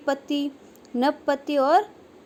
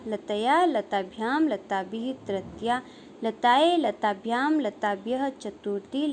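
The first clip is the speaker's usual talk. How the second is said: declension recitation. Shown as a demonstration. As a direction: recite a Sanskrit declension table, form by form. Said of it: "किस प्रकार से चलते हैं". (शब्द रूप का लयबद्ध पाठ)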